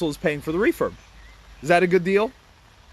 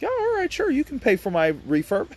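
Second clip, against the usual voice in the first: high, squeaky mock seller voice; 9 semitones higher than usual. Seller to Barry, in a high mock voice.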